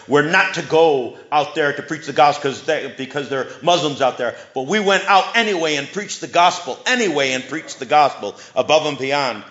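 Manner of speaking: a hint of African-accented English; African brogue. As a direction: retell it with a touch of a Nigerian English accent. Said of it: "in his African brogue, his English African brogue".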